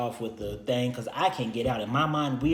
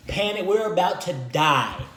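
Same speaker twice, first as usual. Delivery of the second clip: mock panic; 7 semitones higher, 7 dB louder than usual. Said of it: "Panic mode".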